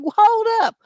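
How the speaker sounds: high, loud mock scolding; mom scolding. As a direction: put the kid back in her place, loud. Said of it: "I'm like".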